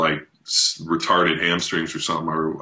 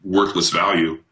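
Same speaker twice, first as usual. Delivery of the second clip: mock relief. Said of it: "I'm like".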